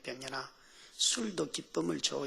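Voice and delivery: very soft, hushed divine reply; the Lord. Acted. The Lord answering the crying believer, hushed. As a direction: answer gently, almost under the breath. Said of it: "주님이 이러는 거예요".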